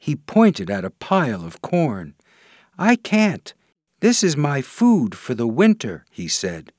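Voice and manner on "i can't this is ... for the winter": tiny marching ant. Acted. Ant refuses, busy with food.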